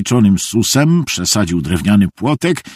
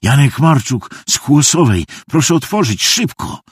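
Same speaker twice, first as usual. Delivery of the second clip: urgent, raised stage whisper; hoarse, half-voiced plea rising in pitch; 6 semitones higher than usual. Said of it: "powiedział chrapliwym szeptem". (chrapliwy, natarczywy szept)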